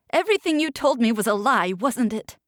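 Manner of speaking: fast, high angry challenge; angry accusation. Acted. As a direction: throw it at him.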